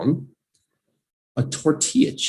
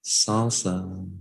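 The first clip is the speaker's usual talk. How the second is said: said nicely; 3 dB quieter than usual. Shown as a demonstration. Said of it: "say it nicely because salsa is great".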